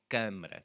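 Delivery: "câmara" with a closed nasal first syllable. Shown as a demonstration. Teacher modelling "câmara" for the class, stressed first syllable. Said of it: "So it's the first syllable".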